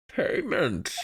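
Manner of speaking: put-on high, puzzled old judge. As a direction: echo it up high, confused.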